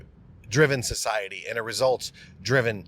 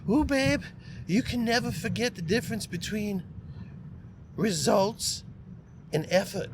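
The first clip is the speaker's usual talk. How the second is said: high-pitched, hammed-up boss impression; a bad mock voice, pitched way up, with pauses; Bob Rohrman impersonation; 9 semitones higher, 4 dB quieter than usual. Speaker imitating his old boss correcting him on results, terrible high-pitched impersonation.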